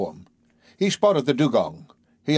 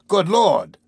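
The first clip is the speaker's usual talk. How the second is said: louder, higher cry of shock; startled exclamation; 7 semitones higher, 4 dB louder than usual. A narrator's reading. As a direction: blurt it out in surprise. Canadian startled outburst.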